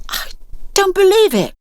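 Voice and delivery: high, stunned cry of disbelief; a teenage boy sees the street swarming with worms. A narrator's reading. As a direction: gasp it out in amazement.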